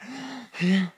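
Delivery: high mock gasp; panicked gasp. Sent back to her room, mock panicked gasp. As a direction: gasp as if trapped.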